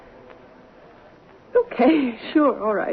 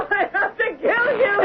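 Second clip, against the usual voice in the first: crazed laugh; 6 semitones higher than usual. Acted. Drunk woman laughing with knife.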